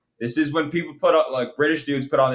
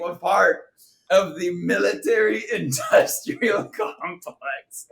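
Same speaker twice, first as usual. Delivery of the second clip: higher, slowed Doctor Evil-like delivery; drawn-out, hammed-up villain line; mock maniacal villain; 4 semitones higher, slower than usual. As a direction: imitate a ridiculous movie villain relishing each word. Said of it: "he's trying to sound so maniacal".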